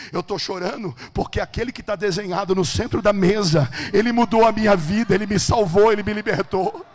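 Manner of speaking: loud testimony swelling to a peak; preacher's fervent, driving shout; impassioned preaching. Acted. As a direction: build to full-force proclamation. Testimony rising to full force.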